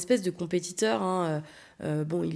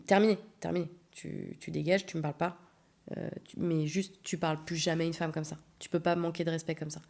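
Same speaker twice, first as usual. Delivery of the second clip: quiet, final scolding; firm dismissal; 2 semitones lower, 5 dB quieter than usual. Retold or imitated. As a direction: end it quietly but firmly. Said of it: "quelque chose de très soft".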